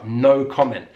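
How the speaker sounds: "no comment" with rounded short o in comment; British "no comment", noh kom-ent; British pronunciation. Shown as a demonstration. Teacher echoing Cumberbatch for learners, British pronunciation. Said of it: "He suddenly sounds very British".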